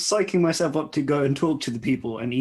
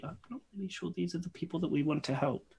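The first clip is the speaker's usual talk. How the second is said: soft, higher confidential murmur; quietly; 5 semitones higher, 10 dB quieter than usual. Acted. Malik doubting the people they want to help, quietly. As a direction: keep it well under your voice. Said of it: "Malik kind of says quietly".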